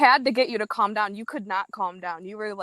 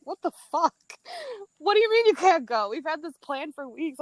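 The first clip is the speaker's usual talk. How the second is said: imitating her sister's disbelief, pitched way up; mock outrage; 9 semitones higher than usual. Voicing her sister hearing the trip is off, mock outraged. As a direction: play the shocked sister, high and indignant. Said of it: "And you were like".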